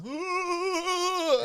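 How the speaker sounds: Johnny Carson ooh. Retold or imitated. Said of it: "Johnny Carson's on his porch".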